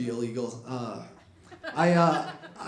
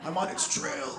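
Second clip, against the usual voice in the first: softer, hushed hunter voice; hushed dad; 4 semitones higher, 6 dB quieter than usual. Retold or imitated. Dad on the phone tracking a deer, hushed. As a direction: murmur it like a stalking hunter. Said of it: "He's like".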